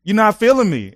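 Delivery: telling the co-leader he hates heights, loud whiny protest; exasperated plea. Retold or imitated. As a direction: whine it at your buddy, scared of heights. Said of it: "And I'm like".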